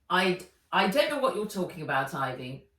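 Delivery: fast, stammering nervous denial; caught-out headmaster stammering; flustered denial. Acted. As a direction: bluster through the panic.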